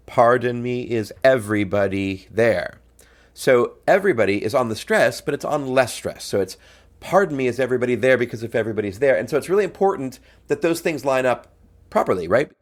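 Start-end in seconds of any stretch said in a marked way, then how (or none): 0.1-2.8 "Pardon" leaned on at its first syllable, "everybody" stressed less, spoken slowly; slow demo of the beat, "Pardon" landing on the one. Shown as a demonstration. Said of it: "par happens on the one". 7.0-9.1 quick patter on the beat, "Pardon" hit first; double time. Shown as a demonstration. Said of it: "here it's double time".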